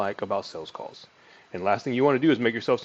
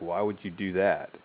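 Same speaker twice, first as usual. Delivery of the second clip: disgusted. Shown as a demonstration. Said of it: "That was more in disgust".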